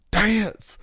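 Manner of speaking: high, loud shrieked demand; shrill-free loud high shout of dance; mock drunk yell. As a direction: bark it like a rowdy bar girl. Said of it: "she just goes".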